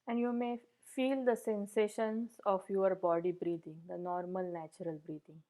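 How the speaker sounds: even, unhurried meditation guidance with long pauses; guided meditation. Real, not acted. Meditation teacher settling the group into posture and breath, guided meditation. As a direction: gently guide listeners through settling the body, leaving space between phrases.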